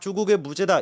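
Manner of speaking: ordinary talk, nothing marked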